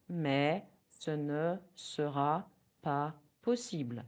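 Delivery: slow, careful French; teacher modelling a polite refusal; slow model phrase. Shown as a demonstration. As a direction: spell it out slowly for learners. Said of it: "You can repeat".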